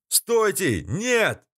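high desperate yell; yelling at full lungs. A narrator's reading. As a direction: scream them away from the hatch. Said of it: "во всю глотку завопил я".

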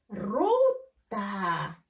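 Ruta split as RU, pause, long TA; teacher separating the two syllables of Ruta. Shown as a demonstration. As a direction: sound out "Ruta" with a gap before "ta". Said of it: "Ahora tenemos que leerlo".

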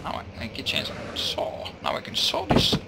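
whispering. Real, not acted. Whispered lines.

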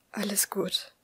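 soft reassuring whisper. A narrator's reading. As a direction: breathe it close to her ear. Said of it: "flüsterte er".

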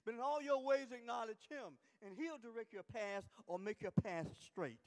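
forceful, rolling sermon delivery; emphatic preaching. Real, not acted. Preacher reciting Proverbs on trusting the Lord, emphatic preaching. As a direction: drive the scripture home to the congregation.

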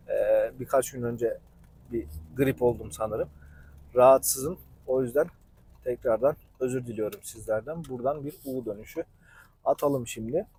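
apologetic, with a hoarse sick throat. Real, not acted. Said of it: "Sesim biraz boğuk ve kötü".

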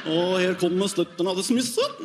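sing-song Norwegian, ending on a jump up; mock Norwegian. Mimicking Norwegian talk for the crowd, sing-song mock Norwegian. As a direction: imitate Norwegian like a ski jump. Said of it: "they talk like they're ski jumping".

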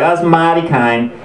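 loose mock Australian accent; attempted Australian accent. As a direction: try an Australian accent, not quite getting it. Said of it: "I can't really do the accent".

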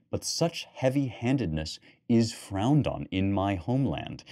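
measured reading with lightly voiced lady and knight; story narration. A narrator's reading. Lecturer reads the Gawain bedroom scene to the class, storytelling voice. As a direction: tell the scene as a tale, voicing the lovers only a little. Reads on after his comment.

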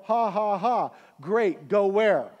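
a dry laugh, then a scoffing question; wry, disbelieving chuckle; sarcastic laugh. Retold or imitated. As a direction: laugh it off, mock the promise. Sarcastic reply to a prophecy.

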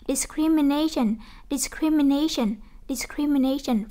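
"discrimination" with main stress on NA, before -tion. Shown as a demonstration. Teacher showing the -tion rule, stress on NA in "discrimination". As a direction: drill "discrimination" slowly, leaning on the NA syllable. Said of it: "trước shin chúng ta sẽ nhấn âm".

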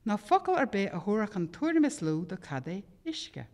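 measured Irish poetry recital; poem reading in Irish. Acted. Reads Irish poem aloud.

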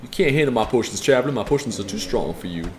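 gruff merchant scoffing at a weak customer; potion seller voice. Pretend. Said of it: "so I shouldn't do that voice".

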